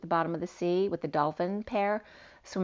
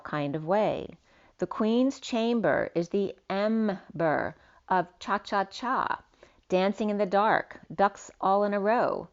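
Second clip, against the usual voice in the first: slightly lifted, declamatory read; poetic reading; 3 semitones higher than usual. Acted. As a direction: read it out like a cryptic verse. Reads out written poetic message.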